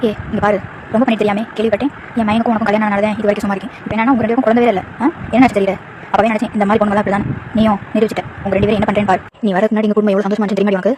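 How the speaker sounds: a lightly voiced mother-in-law scolding; mild cold blame, half-hearted taunt. Mother-in-law blaming daughter-in-law for no child, lightly voiced.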